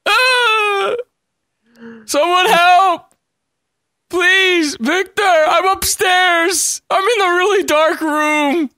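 calling out high and slow; yelling across the room. Pretend. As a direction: call for help upstairs. Calling for help upstairs.

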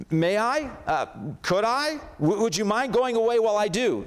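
put-on a little girl asking a huge lion, afraid; frightened young girl. A narrator's reading. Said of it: "Jill is scared to death over this lion".

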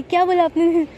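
mock offended, raise the voice; play-offended mother, pitch jumping up; indignant surprise. Mother reacts to being called old.

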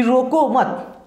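"रोको मत" run together as one phrase; slow, joined "रोको मत"; mistaken comma placement. Shown as a demonstration. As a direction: say "रोको मत" with no break after रोको. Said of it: "नहीं, रोको मत जाने दो".

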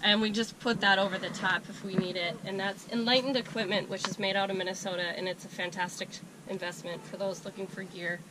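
hoarse from a cold; raspy, worn-out voice; smoker's rasp. Real, not acted. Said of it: "That's why I sound like I smoked a carton of cigarettes".

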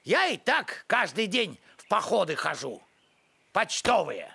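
put-on grumpy old postman, low and dry; a low grumbling old postman; Pechkin's voice. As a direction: grumble like a crusty village postman.

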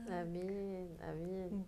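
very soft, reverent amen; hushed amen. Real, not acted. Host answering the guest's hymn, hushed amen. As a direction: let each amen fall gently.

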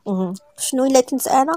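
lightly put-on gruff man's voice, mocking; mock gruff imitation. Woman mocking the man by imitating him, sarcastic gruff voice. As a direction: sarcastically mimic his voice. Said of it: "غلظت صوتها بحال كتقلدو وقالت بسخريه".

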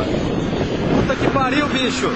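awed exclamation. Real, not acted. Reação ao ver a imagem. (espanto lento e mais baixo)

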